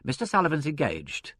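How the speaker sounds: impassive secretary's brush-off. A narrator's reading. Secretary to inspector at the desk, impassive. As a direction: turn the caller away without feeling. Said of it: "said the secretary impassively".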